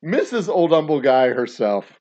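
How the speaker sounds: loud, laughing showman introduction; grand hammed-up host voice; announcer intro. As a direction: boom it out like a ring announcer.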